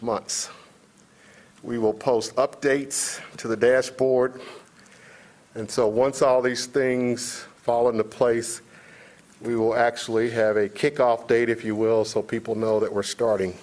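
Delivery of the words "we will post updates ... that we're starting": muffled, speaking through a mask; through a face mask. Real, not acted. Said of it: "It's hard to speak through the mask".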